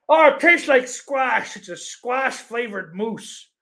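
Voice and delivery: high, slow sarcastic mock voice; mocking clerk. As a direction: ham up a clueless clerk.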